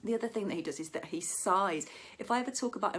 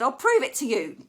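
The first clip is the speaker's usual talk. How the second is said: high, loud insistence; hammed-up stubborn mum; mock stubborn mother, high and loud; mum insisting; 7 semitones higher, 11 dB louder than usual.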